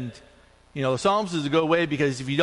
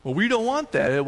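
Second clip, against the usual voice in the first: mildly indignant, higher-pitched objection; 4 semitones higher than usual. Retold or imitated. Lady objecting to gospel at a funeral, indignant. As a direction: object with a touch of mock indignation. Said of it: "she was all indignant".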